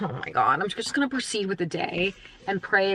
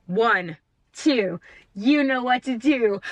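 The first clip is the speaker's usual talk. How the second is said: high sing-song pet voice; high doggy talk; 10 semitones higher than usual. Real, not acted. Baby voice talking to dog.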